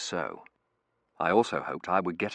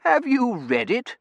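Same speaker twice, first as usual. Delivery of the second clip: put-on old professor voice; 10 dB louder, slower than usual. Professor character voice.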